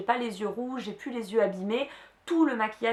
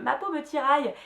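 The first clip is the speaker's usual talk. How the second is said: higher-pitched mock commercial complaint; mock advert voice; 5 semitones higher than usual. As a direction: lightly imitate a woman in a skincare ad. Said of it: "comme dans les pubs". (imitation légère de pub, voix plus aiguë)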